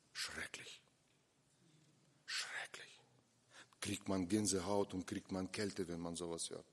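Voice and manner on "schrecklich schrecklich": whispered in dismay; appalled whisper. Real, not acted. Preacher recoils at the sister's words, horrified whisper. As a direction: breathe it out in horror.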